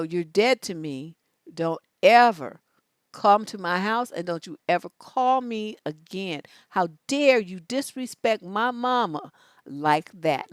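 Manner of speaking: acted angry threat.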